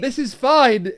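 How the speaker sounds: laughing. Real, not acted. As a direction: chuckle the words out. Laughing at the post.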